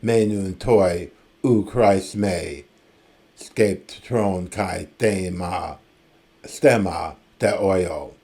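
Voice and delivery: slow, measured recital of Homeric Greek verse; poetry recitation. Acted. Professor reading Homer's Greek to the class, slow epic recital. Rereads Greek lines being discussed.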